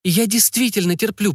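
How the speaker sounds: put-on high, earnest young woman confiding; a girl talking through hurt, searching for words; Lio, young woman. A narrator's reading. Lio's voice held high. (юная Лио, высоким голосом, искренне и с волнением)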